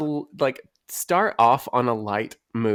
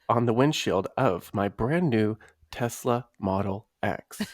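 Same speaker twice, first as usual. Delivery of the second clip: sultry voice; 5 dB quieter than usual. Pretend. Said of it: "I'm gonna read it to you in a sultry voice".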